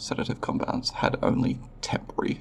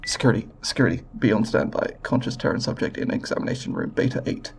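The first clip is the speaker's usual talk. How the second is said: urgent security call; faster than usual. Acted. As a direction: raise your voice to summon backup.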